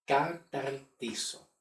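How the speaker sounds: "Catartizo" drawn out slowly, syllable by syllable; slow pronunciation demo. Shown as a demonstration. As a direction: model "Catartizo" slowly for learners. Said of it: "que se pronuncia como".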